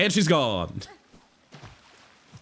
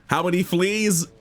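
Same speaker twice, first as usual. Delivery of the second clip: amazed; 5 semitones higher than usual. Real, not acted. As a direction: repeat "How many fleas?" in disbelief. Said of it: "How many fleas are in here?".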